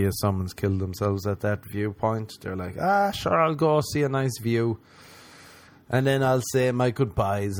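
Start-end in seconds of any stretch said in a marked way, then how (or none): 2.8-7.6 cheerful tourist. Retold or imitated. Voicing cheerful suicidal tourist.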